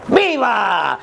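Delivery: drawn-out falling cheer; acted crowd shout. Comic playing himself answering the Grito leader, mock shouting. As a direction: answer the patriotic call like a crowd member. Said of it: "yo estaba gritando".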